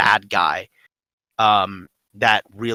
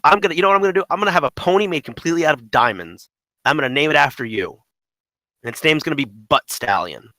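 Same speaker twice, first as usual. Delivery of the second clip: higher, mildly bragging villain impression; crazy taunt; 4 semitones higher, 4 dB louder, faster than usual. Imitating Jack boasting about a diamond pony, mock taunting. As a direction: announce it like an over-the-top taunt, lightly put on. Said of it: "his taunts get so crazy".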